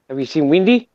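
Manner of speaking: imitated South African, Wendy becoming Windy; South African accent. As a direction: ask like a South African husband. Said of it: "He was from South Africa".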